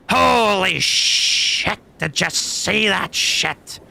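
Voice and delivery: hog-wild yell, high, loud and drawn out; excited shouting to test the mic; demonstration yell. Shown as a demonstration. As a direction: holler it slowly at full volume. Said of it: "Even if I yell".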